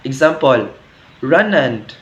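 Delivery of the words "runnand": "runnand" with an open "-and" ending; northern dialect ending. Shown as a demonstration. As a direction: say "runnand" as "ran-AND", voice falling. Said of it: "was said as end in the north".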